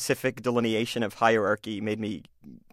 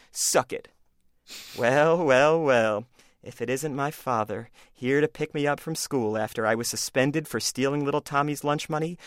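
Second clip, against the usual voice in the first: smug bully voice. Acted. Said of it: "this is called A Bully Does His Research".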